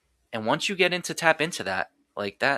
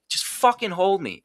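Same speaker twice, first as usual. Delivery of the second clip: high, raw retold begging; desperate plea; 8 semitones higher than usual. Son begging his cold dad on their knees, a high desperate retold plea. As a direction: cry out to be held, in a pleading retelling. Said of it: "I'm telling him, like".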